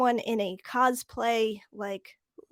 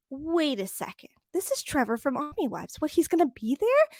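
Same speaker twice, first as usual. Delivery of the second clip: acted-out disbelief, rising to a higher question; surprised double take; 4 semitones higher than usual. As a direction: replay your own mild astonishment. Retells own surprised realization.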